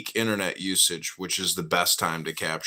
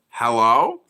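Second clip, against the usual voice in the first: sing-song hello; 14 semitones higher, 7 dB louder, slower than usual. Pretend. Mocking repeated greeting.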